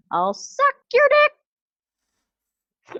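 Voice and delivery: very high, very slow, swooping sing-song drawl. Explaining an earlier joke to the others, imitating Aaron's voice. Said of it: "the Aaron's voice when he goes".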